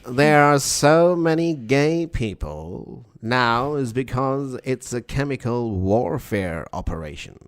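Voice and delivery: put-on slow, declaiming old-style broadcaster; Alex Jones. Co-host giving another conspiracy rant, old-style broadcaster impression. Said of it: "give you one other".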